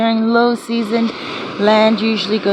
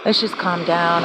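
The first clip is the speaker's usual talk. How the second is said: soft shushing, quieter; hushing whisper; 6 dB quieter, slower than usual. Retold or imitated. Telling her hyper friend to calm down, hushed and soft. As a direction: hush him down gently. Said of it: "and I said to him".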